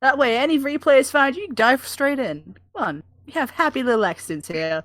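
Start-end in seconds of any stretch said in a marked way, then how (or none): 2.7-4.8 soothing TV painter. Pretend. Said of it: "It's like a D I Y show".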